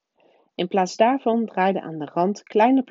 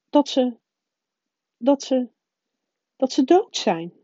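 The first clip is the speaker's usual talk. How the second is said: higher, louder prim witch stumbling over the words; stern professor, faltering; 6 semitones higher, 4 dB louder than usual. A narrator's reading. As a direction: she can barely say they are dead. McGonagall, faltering over the news.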